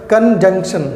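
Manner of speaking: कंजंक्शन said slowly and clearly with the nasal n before the k; careful pronunciation. Shown as a demonstration. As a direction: spell out कंजंक्शन with the full "kun-junk-shun". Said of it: "एक बार बोल के दिखाओ ज़रा".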